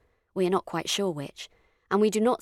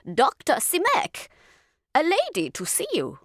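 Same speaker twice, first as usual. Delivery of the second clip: high, louder call through the door; 10 semitones higher, 5 dB louder than usual. A narrator's reading. Landlady calls through the door to the doctor, louder. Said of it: "and then in a louder tone".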